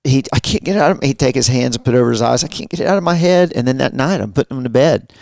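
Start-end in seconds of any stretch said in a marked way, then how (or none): 0.3-3.5 put-on raised, hurried child's complaint; lightly voiced frightened kid; upset kid. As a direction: mimic a rattled boy. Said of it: "he just start".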